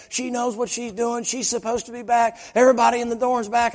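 high, loud indignant outburst; retold furious officer. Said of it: "she's just going off like the Tasmanian devil".

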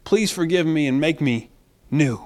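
mild, reverent petition; humble prayer. Acted. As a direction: pray humbly, easing down at the end. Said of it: "We come to him humbly and we say".

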